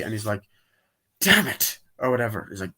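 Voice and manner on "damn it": mock frustrated curse. Acting character's frustration.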